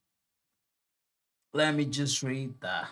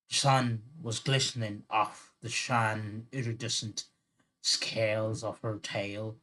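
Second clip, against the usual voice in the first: badly faked Irish storytelling accent; attempted Irish accent. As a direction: read it in an amateur Irish brogue. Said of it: "I'm gonna try an Irish accent".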